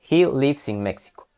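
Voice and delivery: "He lives in Mexico" on a flat level tune; flat intonation. Shown as a demonstration. Teacher demonstrates flat statement intonation for the class. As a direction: keep "Mexico" level, no rise at the end. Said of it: "Esta es una entonación plana".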